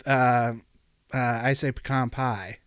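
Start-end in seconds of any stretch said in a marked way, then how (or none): 1.7-2.1 "pecan" with a reduced first syllable and open KAHN; Southern pecan. Shown as a demonstration. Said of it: "the correct Southern way to say it".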